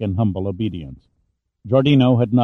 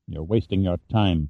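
low, quiet, bitter retort; 5 semitones lower, 4 dB quieter than usual. Acted. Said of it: "Pitt said bitterly".

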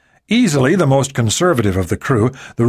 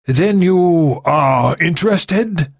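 put-on upper crust accent; 6 semitones higher, much slower than usual. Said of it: "his upper crust accent".

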